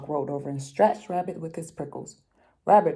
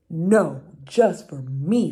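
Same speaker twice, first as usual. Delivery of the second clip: louder, slow possessive refusal; angry mouse; 7 dB louder, much slower than usual. Acted. Mouse refuses rabbit, louder and slow. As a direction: stamp the words out, mine alone. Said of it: "Mouse is upset. He's angry".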